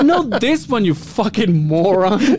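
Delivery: imitating mom scolding, drawn out at the end; a touch of exasperated mom; mock angry mom. Mom insulting him, retold.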